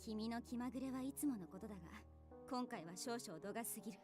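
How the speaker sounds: detective revealing the culprit. Acted. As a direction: threaten him with cold authority. Leader threatens to restrain him.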